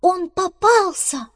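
high, loud, drawn-out alarm cry; shouting. Acted. Squirrel runs to badger's burrow with news, shouting. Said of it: "как закричит".

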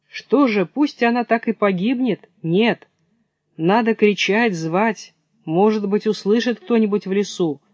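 anxious hare appealing to the audience; worried hare. Acted.

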